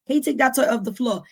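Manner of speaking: put-on mildly insistent parent to a child; nagging request to a child; parent repeating instructions. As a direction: repeat the order, patience thinning. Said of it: "when I repeat things over".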